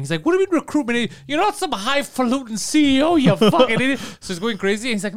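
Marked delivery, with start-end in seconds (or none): 0.3-4.0 higher, mock angry yell; hammed-up yell at a friend. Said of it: "So he starts yelling".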